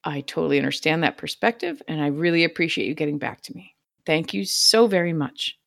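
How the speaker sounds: soft, low, sweet politeness; overly polite. Retold or imitated. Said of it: "I'm like".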